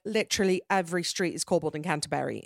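imitated British accent; mock British accent. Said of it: "I can't stop doing the British accent".

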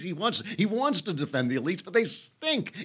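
high-pitched, incredulous laughing; laughing scorn. Real, not acted. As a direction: laugh through the disbelief.

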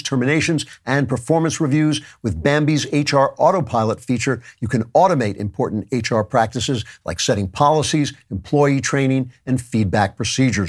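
brisk upbeat sponsor read. Acted. Host reading a sponsor spot to listeners, upbeat ad voice.

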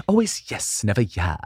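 Michael Caine impression. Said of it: "Sir Michael Caine".

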